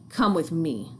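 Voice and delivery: mock-sweet, lightly sugary invitation; sweet as sunshine. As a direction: fake kindness, barely sweetened. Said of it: "my voice sweet as sunshine".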